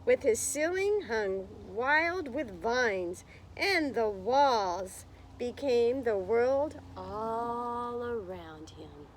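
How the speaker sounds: put-on slow, lilting read-aloud for children; story narration. A narrator's reading. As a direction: read it like storytime, drawing out the words. Reading picture book to class.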